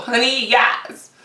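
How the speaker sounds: drawn-out, relishing honey yes; slow satisfied sass; slow savoring. Real, not acted. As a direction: stretch it out like tasting something good. Savoring cantaloupe.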